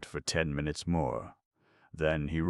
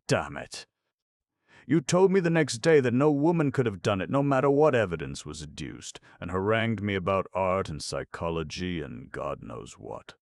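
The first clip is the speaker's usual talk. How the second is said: loud, high, fast indignant protest; indignant outburst; 4 semitones higher, 5 dB louder than usual. A narrator's reading. Markham lashing out at Vance, indignant shout. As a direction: burst out in exasperation. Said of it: "Markham became indignant".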